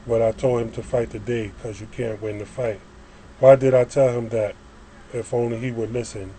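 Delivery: spoken-word reading, each opening phrase pushed then easing down; poem recitation. Acted. Poet reads about yesterday and his boss, reciting. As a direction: recite in measured, separated lines.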